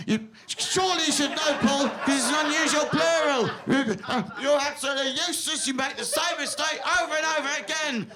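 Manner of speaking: lightly voiced scolding inner voice, building to shouts; nagging inner critic. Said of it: "who would need a voice inside them that says".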